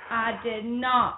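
measured politician's drawl; Bill Clinton. Acted. Showing off a better impression to a co-host, slow Clinton voice. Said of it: "I got a better Bill Clinton".

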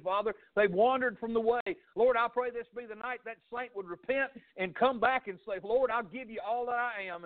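earnest spoken prayer, steady and reverent; pastor's prayer. Acted. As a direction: pray over the congregation and listeners. Pastor leads closing prayer.

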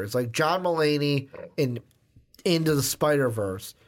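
talking through a burp; words pushed out on a burp. Real, not acted. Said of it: "I was burp talking there".

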